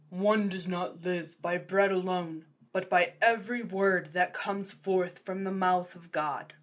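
solemn, measured scripture voice; solemn quoting voice. Acted. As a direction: intone it with gravity.

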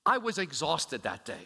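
a high, whiny string of excuses; pleading his case with a mock whine; excuse-making. Preacher voices a king making excuses, mock-whiny. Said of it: "He doesn't say".

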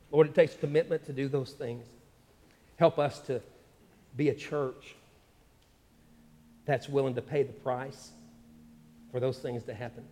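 earnest spoken prayer to the Lord. Real, not acted. Pastor praying over the church, earnest prayer. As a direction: pray it over the church, steady and sincere.

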